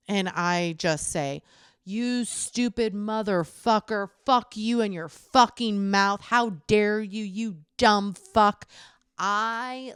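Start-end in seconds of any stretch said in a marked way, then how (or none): 1.8-8.7 retold furious cursing, a bit louder; swearing like a sailor at a rude guy; full sailor. Woman retelling how she cursed out a man in line, furious swearing. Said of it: "I just go full sailor on him".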